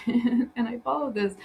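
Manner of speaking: words starting out of a real laugh; amused, chuckle into the explanation. Real, not acted. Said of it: "I'm laughing because".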